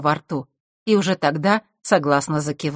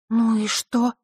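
indignant; 6 semitones higher, slower than usual. Acted. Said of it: "возмутилась Василиса".

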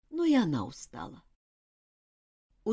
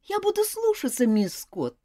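put-on pleading child. A narrator's reading. Girl promises to obey.

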